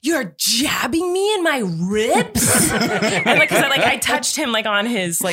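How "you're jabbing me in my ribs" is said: slow, drawn-out mock indignation; mad sleeper, imitated. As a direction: play the outraged, half-asleep partner, dragging the words. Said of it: "He was so mad at me".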